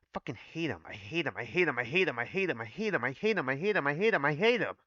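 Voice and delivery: building hatred. Acted. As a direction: repeat it like a mantra that keeps boiling over. Character repeats hate, building up.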